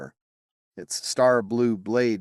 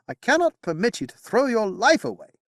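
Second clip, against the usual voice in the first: much higher, urgent plea; protective knight; 13 semitones higher, 4 dB louder than usual. Acted. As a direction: block him with your words. Bedivere voiced in narration.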